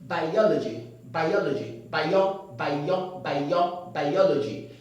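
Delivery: "biology" said as bai-o-lo-ji, correct; "bio" split out then the whole word. Shown as a demonstration. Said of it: "This word is pronounced as".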